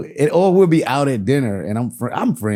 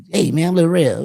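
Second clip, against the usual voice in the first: mock on-screen performer voice, rising higher; movie voice; 6 semitones higher, 3 dB louder than usual. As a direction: imitate Dad putting on his screen voice. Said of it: "you're doing that movie voice".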